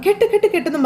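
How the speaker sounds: high repeated urging; urgent cheering. Retold or imitated. Husband egging on his wife as she ties the garland, high and eager. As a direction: chant her on to keep tying.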